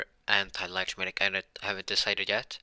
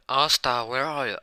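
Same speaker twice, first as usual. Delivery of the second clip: loud calling out, pitch raised; family screaming; 4 semitones higher, 6 dB louder than usual. Retold or imitated. Family screaming for Asta to come home. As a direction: yell his name across the village.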